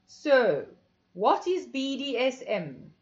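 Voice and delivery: stern teacher asking; commanding mistress voice; husky female voice. A narrator's reading. Mistress Layla questioning the group.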